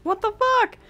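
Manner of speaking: loud, high exasperation; angry outburst. Real, not acted. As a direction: snap in frustration, ending in a groan. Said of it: "I'm getting angry".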